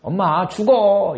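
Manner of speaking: high, loud, slow angry shout at mom; violent outburst. Shown as a demonstration. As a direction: yell it like a furious child scolding. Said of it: "이 폭력적인 커뮤니케이션".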